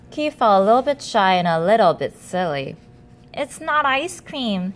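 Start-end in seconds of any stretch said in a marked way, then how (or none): 3.3-4.7 squeaky. Acted. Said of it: "he squeaked".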